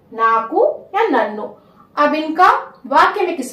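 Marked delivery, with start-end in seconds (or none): 0.1-1.6 "नाकू या नन्नो" said slowly for the learner; slow it down so students can copy "नाकू या नन्नो"; slow repeat. Shown as a demonstration. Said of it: "मैं धीरे धीरे बोलूंगी". ("नाकू या नन्नो" धीरे-धीरे बोलें)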